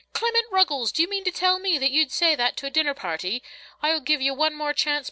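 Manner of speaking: high, indignant maternal rebuke; exasperated mother telling off her boy; scolding mother. A narrator's reading. Mother scolding her son at rehearsal.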